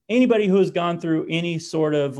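usual speaking voice

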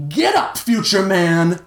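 slow, high rallying shout. A narrator's reading. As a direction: shout it as a drawn-out command. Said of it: "Tiger continued to shout in his ear".

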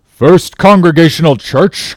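high, loud disbelief; scandalized old captain exclaiming; incredulous cry. A narrator's reading. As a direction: cry it out as a shocked question. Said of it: "cried Bildad".

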